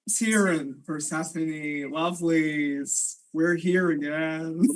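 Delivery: low, slow crooning lure; coaxing creature voice. Acted.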